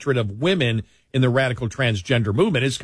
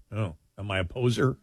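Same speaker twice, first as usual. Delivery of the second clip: laughing self-mockery; 5 semitones lower, 6 dB quieter than usual. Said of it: "and went".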